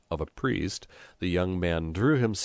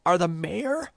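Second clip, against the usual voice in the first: high, incredulous shouted reproach; urgent, high-pitched telling-off; shouted scolding; 13 semitones higher, 4 dB louder than usual. A narrator's reading. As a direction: shout sense into a friend's ear. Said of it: "shouted Brusco in his ear".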